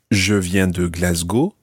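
Glasgow said the French way, GLAS-go with a rising end; slow French-accented Glasgow. Shown as a demonstration. Teacher models the French way to say Glasgow. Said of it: "it sounds much better to say".

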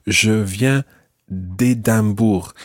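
"d'Édimbourg" with de run into the name; elided de. Shown as a demonstration. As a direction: slowly model "d'Édimbourg", no E after the D. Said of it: "you drop the E of de".

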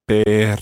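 "perro" with a very long, blown trill; exaggerated rolled R. Shown as a demonstration. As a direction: blow through the tongue on the RR of "perro". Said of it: "it sounds something like".

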